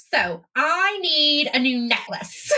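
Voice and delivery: put-on slow, drawn-out Valley Girl. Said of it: "adding a Valley Girl voice to it".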